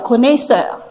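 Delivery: connaisseur said the French way, kon-e-seur with no English r; French pronunciation. Shown as a demonstration. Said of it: "The French pronounce it connaisseur".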